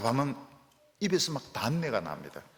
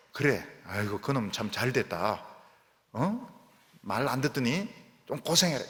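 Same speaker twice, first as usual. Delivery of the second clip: mocking God. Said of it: "이게 아닙니다".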